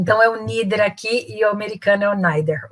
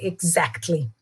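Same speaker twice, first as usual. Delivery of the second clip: "Exactly" as "ig-ZACT-ly", lower and softer; stress on second syllable; 5 semitones lower, 7 dB quieter, much slower than usual. Shown as a demonstration. Teacher drilling a tongue-twister, "Exactly" stressed on ZACT. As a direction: stress the ZACT in "Exactly", letting the end drop. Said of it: "Porque a tônica é no exa".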